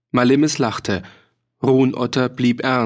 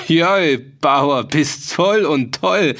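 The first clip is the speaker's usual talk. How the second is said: hearty laughter; 4 semitones higher, 4 dB louder, slower than usual. A narrator's reading. Mercenary mocking the farmer's offer, laughing merrily. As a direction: burst out laughing, raised and drawn out. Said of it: "brach in heiteres Gelächter aus".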